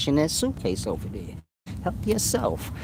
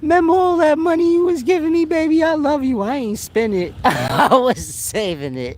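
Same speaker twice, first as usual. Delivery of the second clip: much higher, louder, fast, sugary woman voice with a laugh; sweet girlfriend voice; 3 dB louder than usual. Retold or imitated. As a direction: gush it like a loyal girlfriend revealing her stash.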